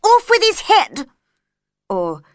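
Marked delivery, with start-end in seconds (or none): 0.0-1.1 high, loud executions order; queen keeps ordering executions, shouting. A narrator's reading. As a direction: bellow the sentence.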